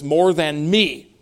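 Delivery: slow down and lean on "me"; emphasized ME. Shown as a demonstration. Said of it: "It's an emphasized remark".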